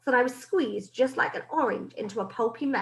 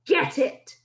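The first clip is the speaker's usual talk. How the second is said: witch shout; 4 semitones higher, 4 dB louder than usual. Acted. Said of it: "shouted the Grand High Witch".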